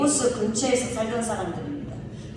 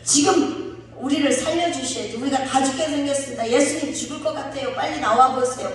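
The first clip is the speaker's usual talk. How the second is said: complaining plea; 3 semitones higher than usual. Retold or imitated. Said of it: "불평 섞인 말을".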